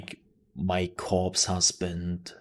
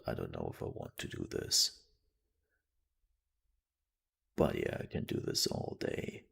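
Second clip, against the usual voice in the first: much lower and softer, weak and tired; too drained to talk, lower and softer; sick voice; 13 semitones lower, 9 dB quieter than usual. Retold or imitated. Streamer imitating how they sound when sick, low and soft. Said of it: "my sick voice when I'm sick".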